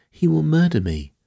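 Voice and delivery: high-pitched terrified cry; panicked, high shriek. A narrator's reading. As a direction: cry out in fear for your life. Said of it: "she shrieked".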